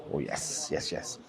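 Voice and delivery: savouring. Real, not acted. Savouring a bite.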